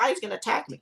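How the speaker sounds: high, mock-panicked gasp of alarm; imitating a scared pedestrian; mock fear. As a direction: play the scared passerby, overdone. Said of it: "you're gonna be like".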